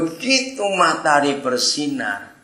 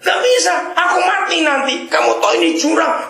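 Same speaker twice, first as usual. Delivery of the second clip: panicked protest; faster than usual. Acted. Dangling man yells at the little angel, high and panicked. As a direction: scream back at the angel in panic.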